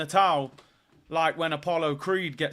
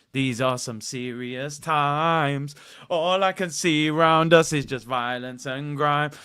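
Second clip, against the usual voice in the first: slow grim quote; 3 semitones lower, slower than usual. Retold or imitated. Quoting a grim lyric.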